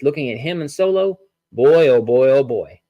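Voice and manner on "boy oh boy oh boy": impressed. Real, not acted. Reacting to Jacob Fatu's size.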